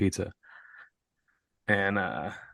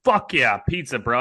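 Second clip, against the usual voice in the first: excited bro; 5 semitones higher, 4 dB louder than usual. Retold or imitated. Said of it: "you should have been like".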